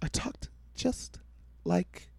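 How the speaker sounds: imitating a high-pitched villain; high, creepy reveal voice. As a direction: pitch it way up, menacing. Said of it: "He had this high-ass pitch voice".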